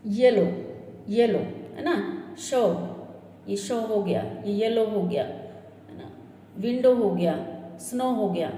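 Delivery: "येलो" ending on a plain o; model pronunciation. Shown as a demonstration. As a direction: model the final o sound. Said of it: "sound क्या है, सिर्फ ओ". (अंत में सिर्फ़ "ओ" की ध्वनि दिखाना)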